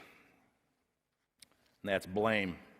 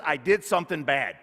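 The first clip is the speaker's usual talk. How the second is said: guilt speaking; 6 semitones higher, 7 dB louder than usual. Acted. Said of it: "Guilt says".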